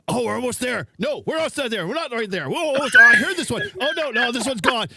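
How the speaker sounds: high, eager satellite chatter; replaying the video of friends chasing the satellite, high and excited. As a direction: mimic the frantic hunt for the signal. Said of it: "all of a sudden, I hear is".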